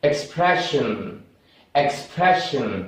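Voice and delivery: "expression" stressed on "pre", soft "shn"; model pronunciation. Shown as a demonstration. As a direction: say "expression" carefully for repetition. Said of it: "सही pronounce करें". ("expression" का सही उच्चारण)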